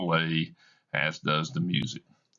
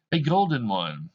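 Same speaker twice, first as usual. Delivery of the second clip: bitter woman voice; 7 semitones higher, 3 dB louder than usual. Acted. Belle answering bitterly.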